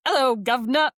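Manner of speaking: a chirpy Cockney "Hello, governor"; Cockney accent. Retold or imitated. Podcaster voicing her central governor in a mock Cockney accent. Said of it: "that is the voice it has".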